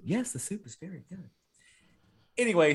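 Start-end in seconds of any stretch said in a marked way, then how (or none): 0.0-1.3 high, soft mannequin reply; weird dubbed voice. Retold or imitated. Mannequin answers about the soup, weird dubbed voice. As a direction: imitate an oddly dubbed mannequin, small and raised. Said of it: "it's this weird, like, eighty-yard voice".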